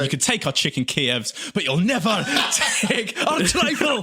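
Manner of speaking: rising to a high shout; hammed-up rallying cry; battle cry. Mock battle cry over buffet.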